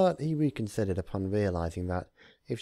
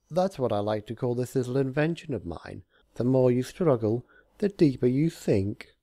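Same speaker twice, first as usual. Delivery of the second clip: smug Discord; 5 semitones higher, 5 dB louder than usual. Acted. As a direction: savour every word of the trap. Discord voiced by narrator.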